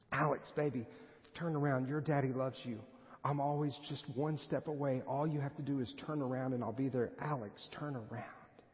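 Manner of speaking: imitated fatherly coaxing; laid-on-thick pleading. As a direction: coax a child as her daddy, trailing away gently. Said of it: "I lay it on thick".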